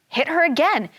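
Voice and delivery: bossy sister. Acted. Sister urging the fairy to hit, sharper voice. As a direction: urge her sister on. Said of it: "The sister said".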